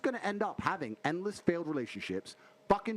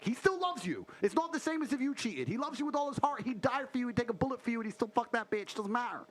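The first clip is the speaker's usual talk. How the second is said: insistent; 5 semitones higher than usual. Real, not acted. S1 pleading on cheating men.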